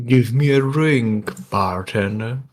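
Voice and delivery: slow drawn-out saloon order; slow Western bar order; mock saloon patron. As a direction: drawl it like a cowboy. Player acts a barfly line.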